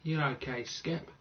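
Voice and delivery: put-on een licht Australisch accent, losjes; Australian accent. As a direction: groet als een nonchalante Australiër. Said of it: "I can also do Australian".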